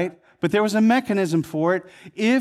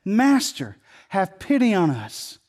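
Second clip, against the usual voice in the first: cry out; slower than usual. Retold or imitated. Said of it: "they cried out in a loud voice".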